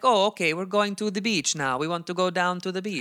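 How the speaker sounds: high mock Italian accent over English; fake European accent. Shown as a demonstration. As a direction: sound like a pretentious tourist with an Italian accent. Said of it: "give us a realistic example of that".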